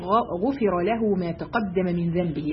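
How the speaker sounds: measured, solemn reading of the hadith; hadith recitation. Acted. Teacher to women, reciting the hadith solemnly.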